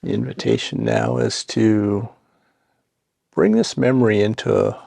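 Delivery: calm, unhurried meditation guidance with long pauses; guided meditation. Acted. Guide settling listeners into seat and breath, calm guided meditation. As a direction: ease them gently into the practice, leaving space between phrases.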